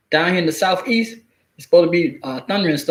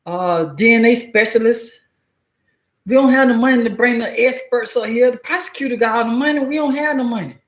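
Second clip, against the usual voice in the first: higher, salesy lawyer pitch; pushy state lawyer; 4 semitones higher than usual. Retold or imitated. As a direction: sell him the plea deal, higher. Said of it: "they gonna scare you".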